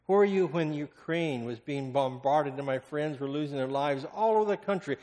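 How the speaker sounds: loud, pleading outcry at Jesus; preacher's loud lament; anguished cry. Acted. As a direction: cry out the question in pain.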